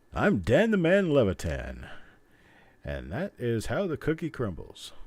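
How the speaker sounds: a hint of a TV anchor; newscaster voice. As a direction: sign off like a news anchor. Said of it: "That sounds like a newscaster thing".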